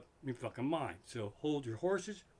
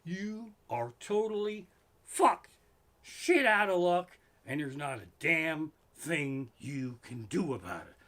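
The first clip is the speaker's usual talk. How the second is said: blunt truth; 3 dB louder, slower than usual. Pretend. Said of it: "what they really are trying to say is".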